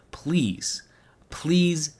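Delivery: breathy whispered please, pleading. Real, not acted. Begging his viewers, he whispers please. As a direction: whisper it like a desperate plea.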